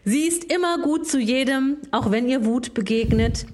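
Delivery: reading lyrics like a poem; solemn mock poetry reading; dramatic reading. Reads song lyrics aloud.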